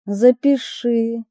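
slow, a touch trembling. Acted. She gives the gangster her number, voice trembling slightly. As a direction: say it slowly with a slight tremor of nerves. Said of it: "говорю я дрожащим голосом".

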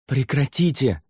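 high forceful shout; demanding shout. Acted. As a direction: order them to stop. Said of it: "потребовал Савьер".

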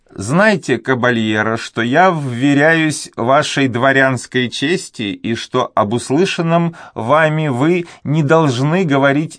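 put-on a fretful old servant afraid to speak; timid old duenna. A narrator's reading. Old duenna hesitating before the young nobleman, high and anxious.

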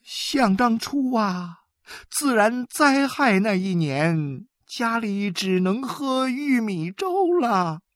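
high, loud scolding tirade; scolding mother. A narrator's reading. Mother berates her three sons, high and loud. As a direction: tear into the ungrateful sons. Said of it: "指着他们大骂了起来".

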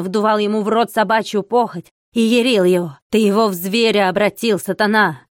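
loud, fanatical ranting; yelling. Acted. Monk yells at the old man, calling him Satan. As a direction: scream every charge at him. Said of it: "заорал".

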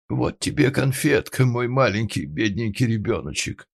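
put-on high, sugary lisping to a child; cooing baby talk. A narrator's reading. Lady offers Pinocchio a candy, high cooing. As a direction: pity him in sweet baby talk. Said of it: "засюсюкала дама".

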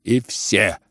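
put-on loud, indignant old general leaving; angry outburst. General to the whole room, angry. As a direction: storm off shouting at them.

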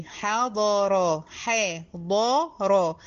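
حضر split as حا ضا را, ح light, ض and ر heavy; letter by letter. Shown as a demonstration. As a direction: sound out each letter of حضر. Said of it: "الحاء هنا مرققة والضاد والراء". (تقطيع حضر حرفًا حرفًا)

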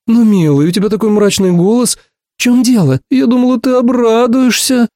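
high, drawn-out and whiny; plaintive drawl. A narrator's reading. Ursula disappointed by his gloomy tone, plaintive and drawn out. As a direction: stretch the last words in a pout. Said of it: "жалобно протянула она".

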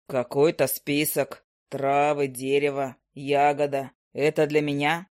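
a calm offer in a low male voice; low hunter. Acted. Hunter reads list.

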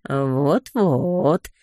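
a purring, agreeing cat voice. Acted. Cat purrs agreement at the bickering couple, purring. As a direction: purr the words lazily. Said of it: "замурлыкал кот".

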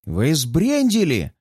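aghast, dragged out slowly; gasping shock. Acted. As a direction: gasp it in disbelief. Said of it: "Ахает". (ахнув от изумления)

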